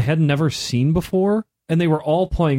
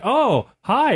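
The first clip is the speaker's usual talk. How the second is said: a much higher, overly chirpy "oh hi"; bright mock greeting; 10 semitones higher than usual. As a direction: play up a sugary hello, pitched way up. The speaker retells greeting the strangers.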